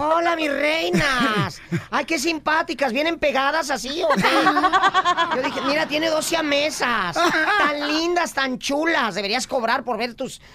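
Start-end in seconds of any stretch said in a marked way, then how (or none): 0.0-9.1 sarcastic. Acted. Mocking the two assistants.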